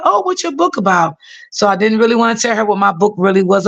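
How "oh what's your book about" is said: put-on a sweet old lady not wanting to be a bother; elderly lady's voice. Old patient asking her carer for water, high and gentle.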